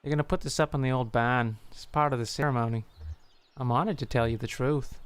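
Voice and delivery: put-on New York accent drifting into Jersey; put-on Jersey accent for a game character. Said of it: "More of a Jersey accent, isn't it?".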